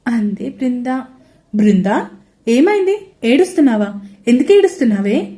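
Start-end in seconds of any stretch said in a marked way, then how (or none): 1.5-5.3 anxious. Acted. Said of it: "కంగారుగా అడిగాడు సంజయ్".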